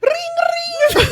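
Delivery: very high pretend telephone ring; phone ring imitation. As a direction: trill it like a ringing phone. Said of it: "let's reenact it".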